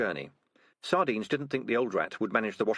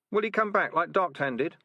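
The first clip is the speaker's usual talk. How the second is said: squeaky rat; 9 semitones higher, 3 dB louder than usual. Acted. Rat in crowd voiced.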